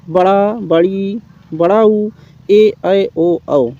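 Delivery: बड़ा, बड़ी, बड़ाऊ said slowly, each long vowel drawn out; long vowels listed. Shown as a demonstration. Teacher listing the seven long vowels, slowly. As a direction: sound each दीर्घ स्वर out long and clear. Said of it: "स्वरों की संख्या सात है।".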